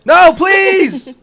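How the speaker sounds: loud high pleading shout; being tickled. Real, not acted. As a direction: beg through the tickling.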